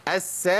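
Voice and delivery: أس with a long hissed s, then released; doubled seen. Shown as a demonstration. Teacher counting seens for students, أس with doubled s. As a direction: hold the s of أس as two letters. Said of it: "دي سين مشددة سنين".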